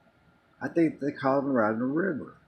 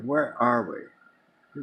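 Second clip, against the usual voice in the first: very slow, drawn-out where are we; slow dazed question; much slower than usual. Retold or imitated. Lost in the dark after the injury, slow and dazed. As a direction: stretch it out like you're lost and foggy.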